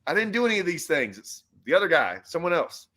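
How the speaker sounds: exasperated retold complaint. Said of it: "I'd had enough".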